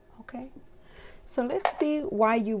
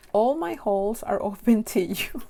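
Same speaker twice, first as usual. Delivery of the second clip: giggly; 4 dB louder than usual. Real, not acted. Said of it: "Why am I so giggly for this one".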